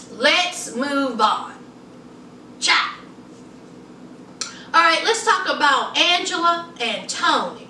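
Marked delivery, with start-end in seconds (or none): 0.1-1.5 drawn out, falling firmly; slow, low, settled fall; slow and lower. Shown as a demonstration. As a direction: take your time, lower and final.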